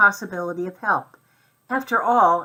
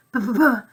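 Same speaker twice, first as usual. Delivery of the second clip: motor sputter; 5 semitones higher, 4 dB louder than usual. A narrator's reading. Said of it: "means the noise I make".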